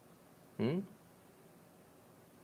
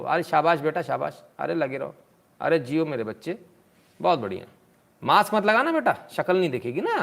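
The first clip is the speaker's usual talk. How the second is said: sarcastic cheering. Real, not acted. Live host mockingly cheers maskless tourists on screen, sarcastic praise. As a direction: cheer them on with biting sarcasm.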